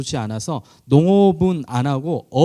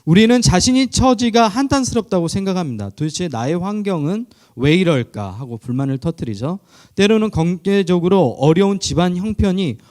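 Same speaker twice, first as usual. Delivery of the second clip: a higher, louder read-aloud sermon passage; 5 semitones higher, 3 dB louder than usual. Acted. Pastor reading a reflection to the congregation, measured reading voice. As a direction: read it out to the congregation like a prepared text.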